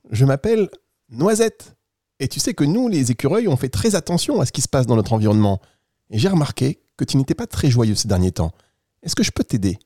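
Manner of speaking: lightly voiced kindly storybook squirrel; friendly squirrel. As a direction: play a helpful little animal reassuring a child. Plays Noisette the squirrel. (écureuil bienveillant, à peine joué)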